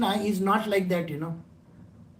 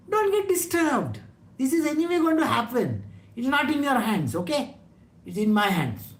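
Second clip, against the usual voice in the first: Krishna reassuring; 4 semitones higher than usual. Acted. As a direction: soothe a worried devotee from on high. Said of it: "What is Krishna saying?".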